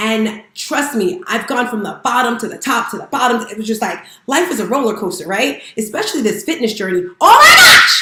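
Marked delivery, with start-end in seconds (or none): 7.2-8.0 very loud, very high shrieking scream. Talking about a fitness journey, suddenly screaming into the listener's ear. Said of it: "Sorry for screaming in your ear".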